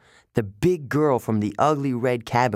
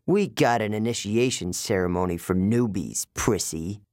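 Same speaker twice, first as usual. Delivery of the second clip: growling. Acted. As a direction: growl it at the new kid. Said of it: "Clarice growled".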